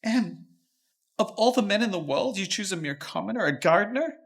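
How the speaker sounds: loud, furious father scolding; outraged father berating his daughter; angry father. Acted. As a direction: shout down at her in outrage.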